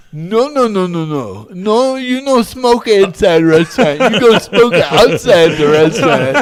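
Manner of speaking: loud scolding in a mock Asian accent; imitated Asian accent. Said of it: "And she's Asian".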